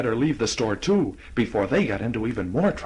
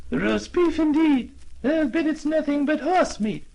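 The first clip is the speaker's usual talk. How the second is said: put-on scoffing old lady; 13 semitones higher than usual. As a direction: sniff at the offer.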